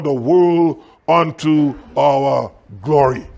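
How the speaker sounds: slow, weighty verse reading; deliberate preacher's declamation; scripture reading. Acted. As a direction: draw out each phrase from the pulpit. Reads scripture aloud emphatically.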